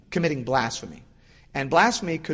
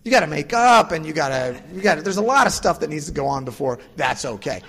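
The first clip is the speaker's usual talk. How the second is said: exasperated parent; 6 semitones higher, 6 dB louder than usual. Retold or imitated. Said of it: "It's like".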